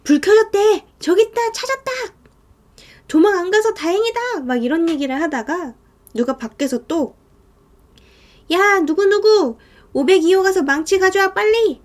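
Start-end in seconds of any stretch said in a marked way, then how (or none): 0.0-4.4 high, louder cries of discovery; acted excited calling out. Outside crowd spotting the light, excited calling out. People outside spot lit house. 8.5-11.8 high, raised-voice urgent order; acted calling out. Someone outside sending for a hammer, urgent calling out.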